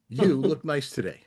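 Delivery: "You look nice today" said as a friendly, sincere compliment; just mean it kindly; simple compliment. Shown as a demonstration. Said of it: "Or it could be just a compliment".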